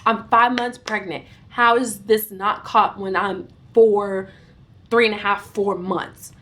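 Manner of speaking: retold indignation, firmly punched; acted-out exasperated protest; getting mad. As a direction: demand answers with mild, mounting anger. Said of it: "I'm getting mad".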